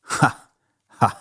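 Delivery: a short read-out cheeky "ha, ha"; mock her with a light, cheeky laugh; understated taunting laugh. A narrator's reading. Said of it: "jeg grinede frækt".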